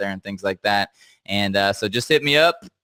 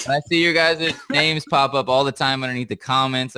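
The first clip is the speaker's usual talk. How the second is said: laughing while talking; 3 semitones higher than usual. Real, not acted. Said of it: "I can't stop laughing right now".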